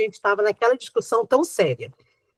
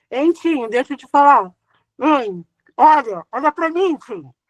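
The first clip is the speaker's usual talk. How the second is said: muffled behind a hand; hand over mouth. Retold or imitated. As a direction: talk through your covering hand. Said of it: "falando com a mão na boca". (falando com a mão na boca)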